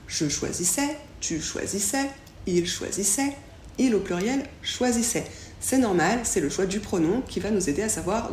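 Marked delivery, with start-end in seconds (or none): 0.1-5.3 chaque "choisissais" pareil, finale en è; énumérer les formes, "choisissait" toujours en è; prononciation identique. Shown as a demonstration. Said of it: "la prononciation du verbe conjugué est la même". (« choisissais » et « choisissait » dits à l'identique)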